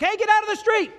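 a full-throated high shout of warning; urgent yell. Acted. God yells at people to get off the street. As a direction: yell it like a parent pulling a child from traffic. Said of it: "Sometimes He yells".

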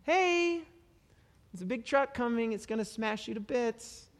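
overly gentle, breezy warning, ironic; mock sweet calm. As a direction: coo a danger warning far too sweetly. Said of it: "I wouldn't be like".

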